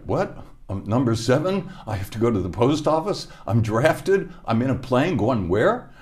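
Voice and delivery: high, rising, baffled questions; stunned new recruit who can't believe any of it; bewildered disbelief. Retold or imitated. Young self's bewildered quote.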